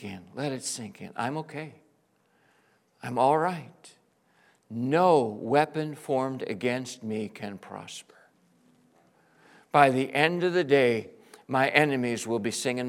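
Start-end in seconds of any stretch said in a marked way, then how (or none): 4.7-8.1 slow, breathy whispered declaration. Real, not acted. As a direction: whisper the promise slowly to yourself.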